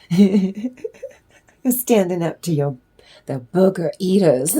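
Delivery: slowed down, laughing through the words. Real, not acted. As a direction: breaks into laughter mid-phrase.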